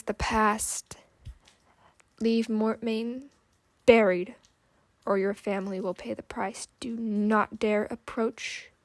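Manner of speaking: slow, grinding, half-whispered menace; broken machine voice. Acted. Automaton threatens Will's family, slow and grinding. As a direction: drag the threat out like failing gears. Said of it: "The creature's broken voice ground out".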